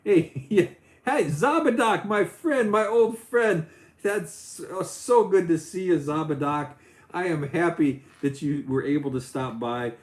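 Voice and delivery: high, loud goofy cartoon dog greeting; Goofy impression. Streamer greeting a friend in Goofy voice. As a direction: ham up a dopey cartoon dog saying hi. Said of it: "I'll do the impression a little bit more".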